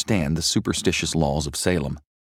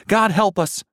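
high, loud panicked cry; terrified yell; 14 semitones higher, 4 dB louder than usual. A narrator's reading. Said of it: "yelled one of Jonathan's friends".

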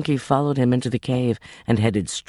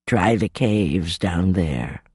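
put-on slow old woman's voice; a hint of a kindly old beggar woman; old woman pointing the way, slow; lightly voiced old woman; 4 semitones lower, slower than usual.

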